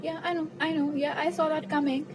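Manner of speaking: put-on unfazed voice, light and high; feigned unfazed. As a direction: pretend you saw it coming all along. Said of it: "very, very unfazed".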